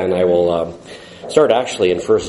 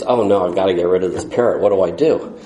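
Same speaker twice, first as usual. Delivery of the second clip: panicky rush; 3 semitones lower, faster than usual. Retold or imitated. Panicked man before guests arrive.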